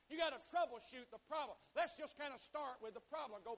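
loud, punched preacher cadence; forceful preaching. Real, not acted. Preacher urges congregation to confront the problem, forceful preaching. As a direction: hammer out each point like a preacher.

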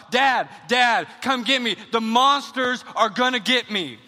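a mock frightened yell for help, not full force; retold child's yell. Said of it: "This is what I yelled out".

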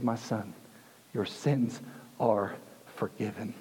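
low, soft and slow, tender; hushed words of pardon, given slowly; gentle forgiveness. Retold or imitated. Jesus to the paralyzed man he forgives, gently and quietly.

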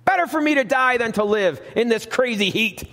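preacher playing an anguished Jonah; voicing despairing Jonah. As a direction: cry it out as Jonah at the end of his rope. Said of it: "and he says".

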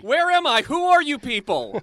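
mock kidnapped captive. Kidnapped contestant wakes in the mind prison, high bewildered panic. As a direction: play a dazed hostage waking up in a strange place. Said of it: "We've kidnapped John and put him in a mind prison".

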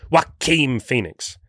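Joaquin said slowly as "wah-keen"; taking it slowly to get Joaquin right; careful name. Real, not acted. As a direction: spell out Joaquin Phoenix deliberately, slowly. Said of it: "I can never say his goddamn name".

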